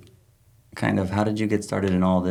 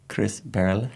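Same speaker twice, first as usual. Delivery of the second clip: Norwegian accent; 2 semitones higher than usual. Shown as a demonstration. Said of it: "I tried my best Norwegian accent".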